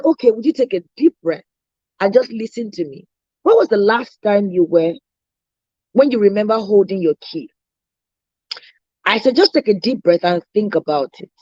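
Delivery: low, soothing, steady coaching voice; calm reassurance. Retold or imitated. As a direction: talk her down gently. Calming a frantic client.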